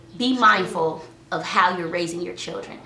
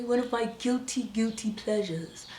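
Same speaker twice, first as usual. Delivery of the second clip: confiding; 9 dB quieter than usual. Real, not acted. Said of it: "let me tell you one of my secrets".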